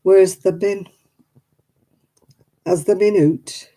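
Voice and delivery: broad Oldham dialect, "bin" for "been"; mock Lancashire Oldham accent. Shown as a demonstration. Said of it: "They say things like".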